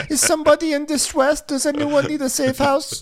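high, laughing sing-out; mock rescuer. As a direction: call out with pretend concern. Mock rescuer answering the calls.

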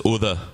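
"Other" in an imitated Northern English accent; his way of saying it. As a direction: say "Other" with a rounded oo at the start, like "oother". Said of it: "the way that he says".

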